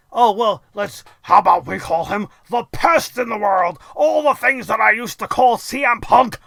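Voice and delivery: hammed-up smug heel; mocking the Miz. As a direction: imitate the Miz being pleased with himself.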